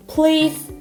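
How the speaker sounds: ordinary talk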